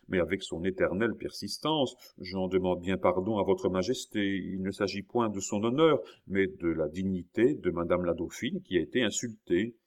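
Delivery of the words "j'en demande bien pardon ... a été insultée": gentle mildness. Acted. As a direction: plead gently but without giving in. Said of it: "avec son inépuisable douceur".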